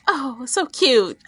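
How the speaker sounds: slow, drawn-out coo; gushing. Real, not acted. Gushing to friends about the couple, slow drawn-out coo. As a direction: savour it like a smitten fan.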